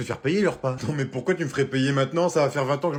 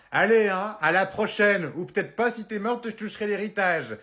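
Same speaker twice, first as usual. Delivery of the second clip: mocking quote; 5 semitones higher than usual. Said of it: "t'as le culot de me dire".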